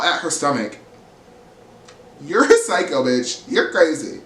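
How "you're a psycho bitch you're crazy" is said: angry yell. Retold or imitated. Brynn yelling at Rebecca.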